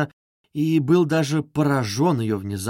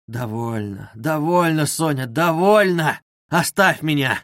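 anguished outcry. Acted. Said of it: "вскричал он вдруг в судорожной тоске".

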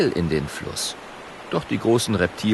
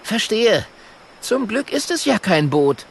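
higher, louder quick apology; Kokosnuss's voice; 11 semitones higher, 3 dB louder than usual. Acted. Kokosnuss apologising to the hippo, higher and louder. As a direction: apologise high like a little dragon.

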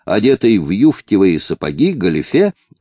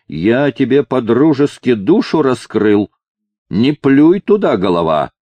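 put-on angry drunk; 4 semitones higher than usual. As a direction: snap at him in drunken offence. (пьяно, сердито)

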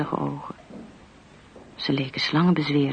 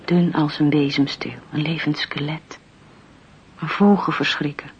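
eerie storytelling whisper; whispered narration. A narrator's reading. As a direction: hush it like a ghost story.

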